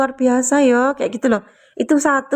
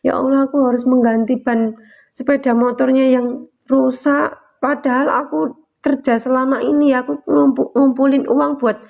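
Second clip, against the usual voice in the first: tearful prayer. Retold or imitated. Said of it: "Aku nangis netes-netes loh itu".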